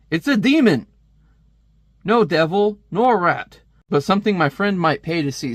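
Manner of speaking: dramatic reading. Acted. Reading dramatic comic panel.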